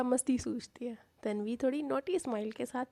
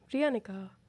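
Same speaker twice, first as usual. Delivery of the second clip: ordinary delivery, nothing marked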